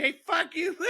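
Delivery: high, indignant outburst; mock angry snap. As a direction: fire it back, offended. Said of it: "And he's like".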